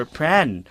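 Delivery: 'Pran' as one syllable; shortened local form. Shown as a demonstration. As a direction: clip the word down to 'Pran'. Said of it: "paikliin yung mga words".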